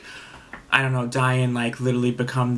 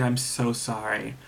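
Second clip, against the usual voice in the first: slow, softer, heartfelt sorry; a hint of earnest remorse, slowed down; sincere apology; 4 dB quieter, slower than usual. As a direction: imitate a genuine, gentle apology. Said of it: "apologize so sincerely".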